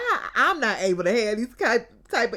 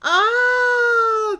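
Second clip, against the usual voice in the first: high, loud laughing wail; laughing cry; 13 semitones higher, 8 dB louder than usual. Real, not acted. Recapping the episode, bursting into a laughing wail.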